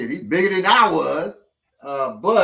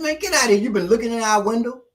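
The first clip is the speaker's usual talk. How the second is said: 1 angry; 8 semitones higher, 4 dB louder, faster than usual. Retold or imitated. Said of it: "I said".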